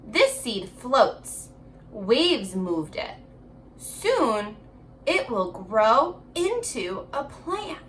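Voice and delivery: slow, careful storybook read; reading to children. Acted. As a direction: read it slowly for young kids. Reads the picture book aloud.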